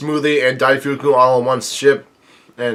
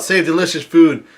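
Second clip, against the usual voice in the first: slightly raised, higher reading; half-hearted imitation of a yell; mild mock yell; 4 semitones higher than usual. Reader voices one of the hungry crew yelling, mildly. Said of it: "one of them yells out".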